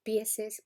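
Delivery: "pieses" with the doubled -ses; popular plural. Shown as a demonstration. Teacher showing a popular plural form. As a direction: offer "pieses" as a quoted example. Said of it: "escuchar plurales del tipo".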